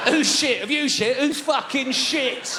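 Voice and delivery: high, loud dad yelling; angry shout. Retold or imitated. Dyslexic dad yelling at a small child, loud. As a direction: snap it at the kid.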